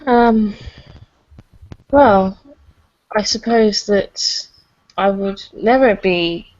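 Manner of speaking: halting, hesitant speech with pauses; struggling over words. Acted. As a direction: stumble through it nervously. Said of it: "Ghost is sort of struggling over her words a bit".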